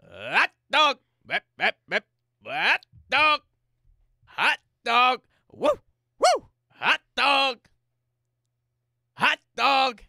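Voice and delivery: high shouted stadium vendor call; hot dog call. Acted. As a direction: belt it out like a ballpark vendor. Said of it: "here's my call".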